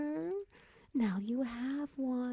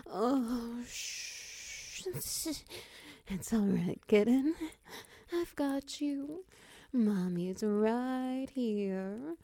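soothing; 2 semitones higher than usual. Acted. Calming a frightened pet.

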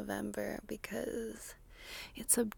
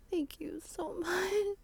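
giggling through the words, higher; laughing; 8 semitones higher, 5 dB quieter, slower than usual. Real, not acted. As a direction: let a laugh break into the thanks. Laughs mid-line.

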